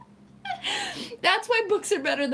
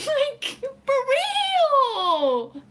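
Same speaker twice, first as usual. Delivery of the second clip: laughing; 9 semitones higher, 4 dB louder, much slower than usual. Real, not acted. Laughing exasperation with viewers.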